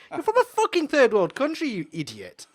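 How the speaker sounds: high, loud swearing, dropping off at the end; retold shouting. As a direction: hurl the insult, then spit the last word. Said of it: "I started swearing and everything".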